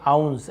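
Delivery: "आउंस" with a drawn-out आऊ glide; drawn aau sound. Shown as a demonstration. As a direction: stretch the आऊ in "आउंस". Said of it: "ऐसे आऊ निकल रहा है". ("आउंस" में खिंचा हुआ आऊ)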